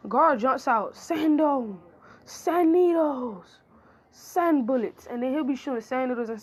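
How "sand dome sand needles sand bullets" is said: calling attacks. Acted. Gaara calling out sand attacks.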